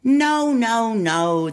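high, loud no no no; upset little monkey protest. Acted. Little monkey wailing at butterfly's wrong guess, high and loud. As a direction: cry out the denial like an exasperated little monkey.

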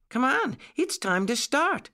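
high-pitched, eager little rabbit; high, keen summons; eager call. A narrator's reading. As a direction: call everyone along, pitched right up. Child rabbit calls to set off.

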